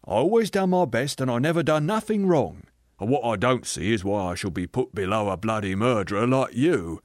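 self-righteous working man, insistent; blustering ghost. Acted. Aggrieved ghost defending the life he led, blustering. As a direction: push each claim like a stubborn grumbler.

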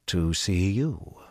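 slow, even and unhurried; Cadsuane, unbothered; calm. Acted. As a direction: answer him coolly, no rush. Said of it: "she said calmly".

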